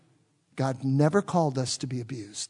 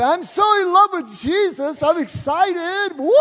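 high, loud hammed-up gushing; exaggerated high excited churchgoer with a woo; mock gushing believer; 13 semitones higher, 7 dB louder than usual. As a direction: overdo the excited worshipper, slowing on excited. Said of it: "You didn't wake up this morning and say".

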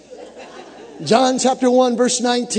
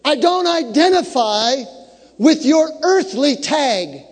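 high, ringing declamation with long-held words; full-force preaching; 7 semitones higher, 4 dB louder than usual. Acted. Preacher voicing John's defiant answer to the questioners, full-force preaching. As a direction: build to a sustained preaching shout.

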